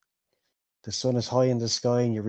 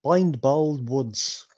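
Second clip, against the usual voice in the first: higher-voiced, chatty innkeeper; 3 semitones higher than usual. Innkeeper tells Bilbo about the drinker at the bar, chatty. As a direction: gossip like a village innkeeper, pitched up.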